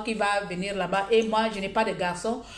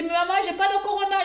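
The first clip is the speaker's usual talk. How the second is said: daughter's protest; 9 semitones higher, much faster than usual. Retold or imitated. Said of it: "Elle dit".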